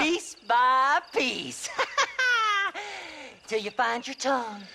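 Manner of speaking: gloating villain. Acted. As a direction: savour every word, then laugh. Villain relishing torture threat.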